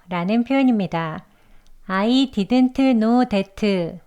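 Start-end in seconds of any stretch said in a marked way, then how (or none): 1.9-4.0 each word spelled out slowly and separately; stiff textbook English. Shown as a demonstration. Teacher shows the stiff textbook reading. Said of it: "라고 해야 할까요? 아니죠".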